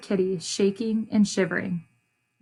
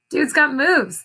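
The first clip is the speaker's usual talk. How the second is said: higher, louder admiring line; impressed child; 5 semitones higher, 4 dB louder than usual. A narrator's reading. Esperanza watching Bao's ball tricks, higher and impressed. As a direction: sound impressed and playful. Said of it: "thought Esperanza".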